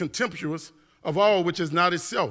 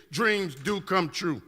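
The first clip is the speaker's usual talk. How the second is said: softer and slow, each word laid down; soft slow conviction; 4 dB quieter, much slower than usual. Acted. Telling the audience the lesson, a soft, slow, sincere promise. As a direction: say it gently like a promise.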